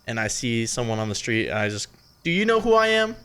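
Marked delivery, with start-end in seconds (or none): 2.2-3.1 smug celebrity. Retold or imitated. Bragging to stranger on street.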